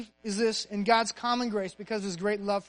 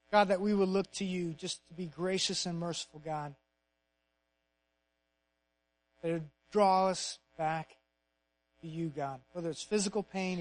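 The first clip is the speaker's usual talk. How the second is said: earnest prayer. Real, not acted. Pastor closing the sermon by praying to God, earnest prayer. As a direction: lead the room in prayer, pausing between phrases.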